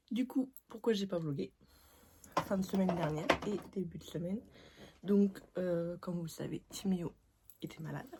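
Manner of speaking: slushy lisp on s sounds. Real, not acted. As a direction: talk with a lisp. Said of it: "j'ai un cheveu sur la langue".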